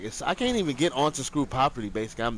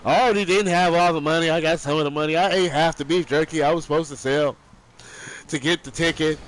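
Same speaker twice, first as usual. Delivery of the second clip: put-on much higher, louder blubbering kid; crying kid; 6 semitones higher, 7 dB louder than usual. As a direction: plead through tears like a little boy. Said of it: "start crying and shit".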